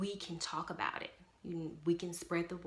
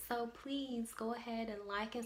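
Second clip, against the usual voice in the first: higher pitch, stretched-out enthusiasm; super excited; 5 semitones higher than usual. Real, not acted. Mother asks viewers to subscribe, super excited. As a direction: sign off with slow, eager emphasis. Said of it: "I'm super excited".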